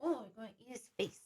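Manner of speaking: cooing, playful mock scolding; puppy talk. Real, not acted. Host fussing over the puppy chewing a chair, cooing. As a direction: coo at a naughty puppy.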